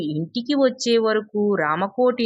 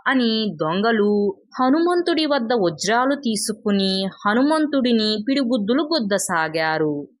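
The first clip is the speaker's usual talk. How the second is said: ordinary delivery, nothing marked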